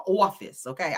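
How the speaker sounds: "office" as New York "awfice"; New York accent. Shown as a demonstration. Host showing off "office" in a New York accent. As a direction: round the first vowel of "office" New York style. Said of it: "in my New York accent".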